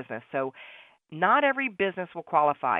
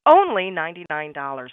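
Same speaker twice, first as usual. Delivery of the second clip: drum roll reveal; 9 dB louder than usual. Pretend. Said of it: "drum roll please".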